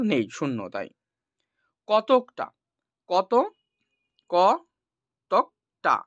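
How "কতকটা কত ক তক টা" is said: কতকটা split slowly into ক, তক, টা; breaking কতকটা into its syllables for students. Shown as a demonstration. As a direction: sound out কতকটা one syllable at a time, pausing between. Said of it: "মানে তুমি কি কি একসাথে উচ্চারণ করছো দেখো".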